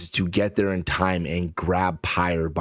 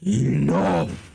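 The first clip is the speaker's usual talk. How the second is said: commanding shout; 6 semitones higher than usual. Acted. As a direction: stop the dragons dead with one word. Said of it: "Wild Oak just says one word".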